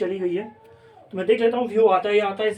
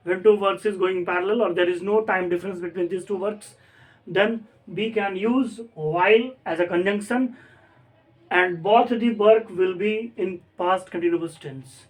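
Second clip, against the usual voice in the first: very slow, deliberate dictation of an English rule; slow rule reading; much slower than usual. Shown as a demonstration. Teacher to class, dictating the while rule slowly. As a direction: spell the rule out word by word for students. Reads the grammar rule aloud.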